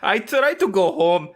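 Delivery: slow mock accent sliding from Spanish to Scottish; accent drifting Scottish. Juror telling the judge his plan, accent slipping to Scottish. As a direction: let the Spanish accent wander off towards Scotland. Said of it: "Now you've gone Scottish".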